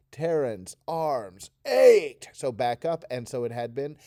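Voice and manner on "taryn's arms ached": ached groaned out slowly and loudly; aching groan on ached. Shown as a demonstration. Teacher reading ached with an aching groan. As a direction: drag ached out like a sore groan. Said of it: "Do that with me".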